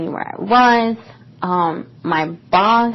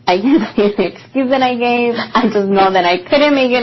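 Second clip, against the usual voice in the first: embarrassed laugh; 3 semitones higher than usual. Real, not acted. Embarrassed laugh at own excuse.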